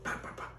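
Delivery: soft knocking noise, "pa, pa, pa"; imitated knocking. Storyteller voicing a knock on the car window, imitated knocking. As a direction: quietly mimic raps on a window. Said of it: "he has a knocking on the window".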